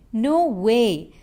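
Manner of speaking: emphatic, lengthened "No way"; stretched with emotion. Shown as a demonstration. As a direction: stretch "No way" out with feeling. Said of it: "Stretch it with emotion".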